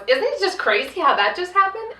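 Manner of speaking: high, breathless marvelling; high-pitched mock wonder at a plot twist; mock amazement. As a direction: gush like it is a wonder. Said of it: "I think the joke was".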